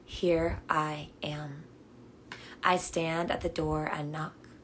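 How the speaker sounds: measured, deliberate Bible reading; solemn reading aloud, key words leaned on; scripture reading. Real, not acted. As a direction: read each phrase reverently, with space between. Reads scripture within meditation.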